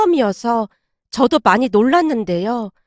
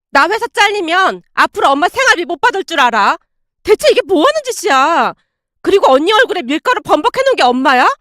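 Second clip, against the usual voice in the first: angry scolding; 2 semitones higher than usual. Acted. Daughter berating mother, angry rant. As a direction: tear into her mother.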